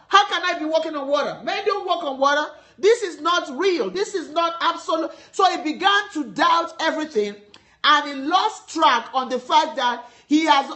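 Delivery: emphatic, driving sermon delivery; preaching. Real, not acted. Preacher urging listeners to keep their eyes on Jesus, preaching. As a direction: preach it with firm conviction.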